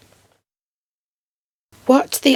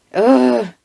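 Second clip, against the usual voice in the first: disgusted groan; 4 semitones higher than usual. Real, not acted. Disgusted at the officer's denial.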